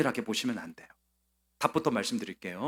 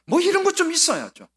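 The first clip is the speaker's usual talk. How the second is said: much higher and louder, fast; passionate preaching cry; 6 dB louder than usual. Real, not acted. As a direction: cry out to rouse the congregation. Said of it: "악다구니를". (회중을 깨우듯 높고 크게 외치는 설교)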